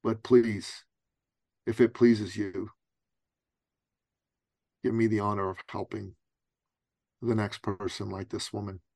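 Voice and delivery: subdued, earnest retold prayer; humble prayer. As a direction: plead humbly with God, pausing between phrases. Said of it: "I asked God".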